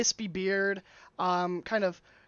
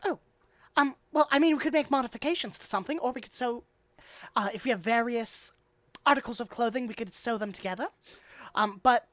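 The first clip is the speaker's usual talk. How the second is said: lightly voiced, higher hesitant dwarf; flustered dwarf tailor; 4 semitones higher, faster than usual. Dwarf tailor offering alterations to a hurried customer, lightly flustered. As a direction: offer options haltingly, voice slightly raised.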